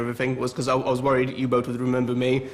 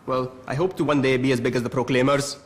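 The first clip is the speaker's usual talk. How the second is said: put-on Scottish accent. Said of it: "learn the Scottish accent".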